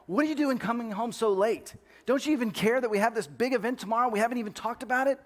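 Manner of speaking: a hint of a father yelling at his late son; retold yelling. Father scolding his son for coming home late, mild mock yell. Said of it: "he just starts yelling at me".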